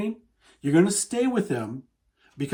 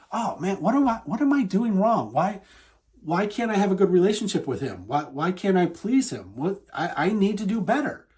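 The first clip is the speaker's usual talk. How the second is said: fretful self-doubt; 2 semitones higher than usual. Acted. Acted self-blame of partner.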